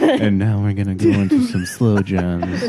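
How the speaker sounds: slow, smooth late-night DJ; a lightly voiced radio host; sexy radio voice. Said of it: "your sexy radio voice".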